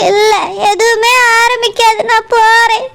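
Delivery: on the edge of crying; tearful despair. Acted. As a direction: refuse comfort through tears. Tearful woman gives up, leaves.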